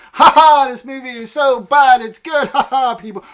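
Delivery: loud, high fake-laughing delight; hammed-up laughing through the words; mock hilarity. Imagining enjoying a movie so bad it's good, mock hilarity. Acts out expected laughing reaction.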